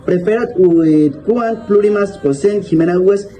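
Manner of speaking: put-on careful reading of an old Latin text; reading Latin aloud. Shown as a demonstration. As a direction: read the Latin passage out, word by word. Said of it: "El texto dice". (lectura en voz alta de un texto latino)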